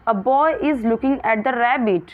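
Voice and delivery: slow, clear classroom read; slow reading aloud. Shown as a demonstration. Teacher reading the question to her pupils slowly. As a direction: read each word out very slowly.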